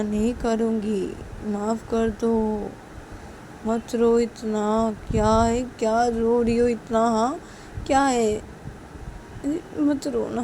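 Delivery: pleading, drawn-out comforting; acted tender coaxing; coaxing apology. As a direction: soothe someone who is crying and beg forgiveness. Coaxing a crying spouse to forgive.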